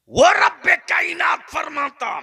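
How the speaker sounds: high, loud announcement; preaching shout. Real, not acted. Preacher announcing God's word to the crowd, shouting. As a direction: build up to the divine call.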